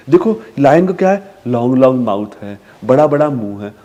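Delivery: sing-song naming; talking to a toddler. Shown as a demonstration. Parent describing the lion's mouth to a child. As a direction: make the mouth sound big. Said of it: "बार बार repeat करने की".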